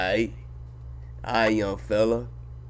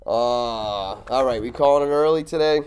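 impression. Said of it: "as he's doing this great impression".

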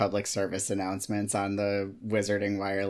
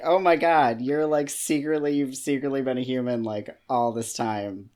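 upset exclaiming; 4 dB louder than usual. Retold or imitated. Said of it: "I would be so upset if it was like".

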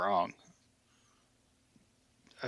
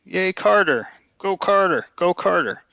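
high, small pretend cheer; playful high-pitched rooting; mock cheering; 6 semitones higher, 3 dB louder than usual. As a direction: cheer on your candidate in a raised pitch. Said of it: "And I'm thinking".

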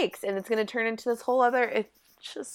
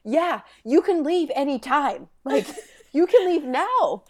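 higher, mock-exasperated reply; amused, raised-pitch comeback; retold pointed response; 5 semitones higher than usual. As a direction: imitate someone stating the obvious to a fool. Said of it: "I love Jordan's response".

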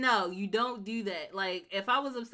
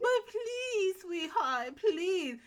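put-on much higher, slow and pleading like a frail old lady; feeble old mother; 10 semitones higher, much slower than usual. Jasmine's old mother begging her not to kick her out, in a high feeble voice. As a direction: beg like a helpless old mother. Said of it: "made her sound so feeble and old".

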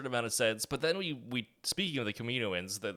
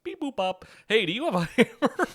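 silly robot voice; 10 semitones higher, 6 dB louder than usual. Retold or imitated. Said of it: "you're like".

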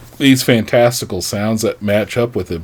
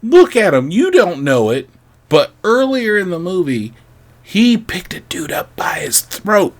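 incredulous; 7 semitones higher than usual. Retold or imitated. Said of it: "And I'm like".

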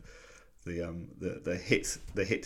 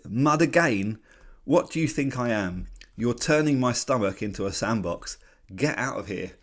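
mildly angry, raised indignant voice; angry outburst; 3 semitones higher, 3 dB louder than usual. Acted. Charlie Brown rejecting Violet's fudge, mildly angry. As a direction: act out mild outrage, a bit higher at first. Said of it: "he is really angry here".

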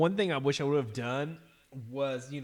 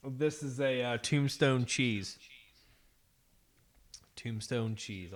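chewing while talking; slower than usual. Real, not acted. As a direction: mouth full of pizza. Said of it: "I'll try not to fucking chomp too loudly".

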